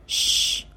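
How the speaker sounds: "Sh" held with rounded lips and full air; breathy round-lipped SH. Shown as a demonstration. Teacher modelling the SH sound, airy round-lipped "Sh". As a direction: push plenty of air through rounded lips on "Sh". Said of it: "môi trên tròn đầy hơi này".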